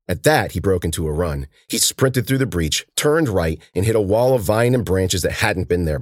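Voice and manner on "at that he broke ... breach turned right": ordinary delivery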